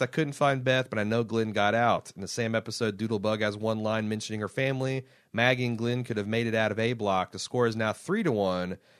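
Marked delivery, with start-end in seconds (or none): none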